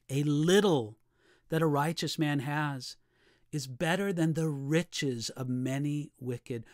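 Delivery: scripture reading. Acted. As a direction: hold back on each phrase and weigh it. Reads verse sixteen with pauses.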